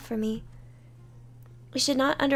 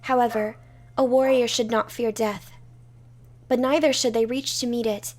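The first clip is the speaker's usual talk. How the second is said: commanding; 5 dB louder than usual. Acted. Warrior declares resolve.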